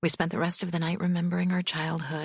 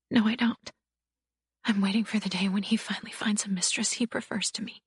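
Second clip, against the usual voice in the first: put-on bruised young wife; 6 semitones higher than usual. A narrator's reading. Bibi voiced by narrator.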